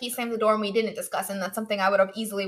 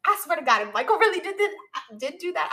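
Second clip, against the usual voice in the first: raised, louder mock threat; higher, emphatic retold annoyance; retold indignation; 6 semitones higher, 4 dB louder than usual. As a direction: swear it with acted-out indignation. Retelling her angry reaction to a dream.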